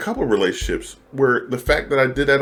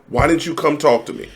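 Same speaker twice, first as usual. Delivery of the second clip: upset partner; 7 semitones higher than usual. Acted.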